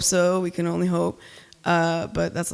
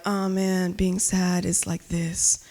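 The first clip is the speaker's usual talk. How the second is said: mock mopey poetry. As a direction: drag it out like a self-serious sad poet. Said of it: "all poems about how sad I was".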